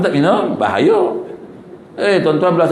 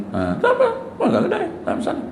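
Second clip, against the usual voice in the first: laughing it off; 4 dB quieter than usual. Retold or imitated. Cheerful husband shrugging it off.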